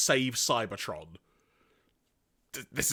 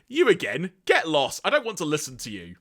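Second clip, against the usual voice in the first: louder, scornful brush-off; dismissive Galvatron; 2 semitones higher, 3 dB louder than usual. Retold or imitated. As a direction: snap at him to go away. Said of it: "he says".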